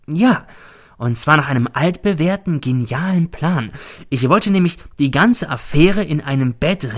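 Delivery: a hint of a scheming old crook, confiding; Cäsar. Cäsar confides the plan to his colleague, sly.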